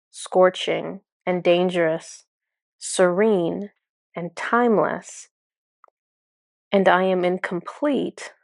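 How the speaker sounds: lightly voiced guide, measured with long pauses; solemn spirit guide. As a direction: deliver it like a calm oracle, phrase by phrase. Voices the guide Horace's long answer.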